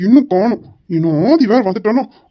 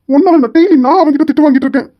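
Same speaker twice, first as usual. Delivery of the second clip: angry shout; 6 semitones higher, 5 dB louder than usual. Acted. Boss scolds late assistant.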